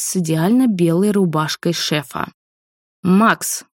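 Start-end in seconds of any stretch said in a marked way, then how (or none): 3.0-3.6 sharp furious snap of a name; furious bark. Acted. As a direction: bark his name in rage. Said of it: "рявкнула не менее агрессивно и разъярённо".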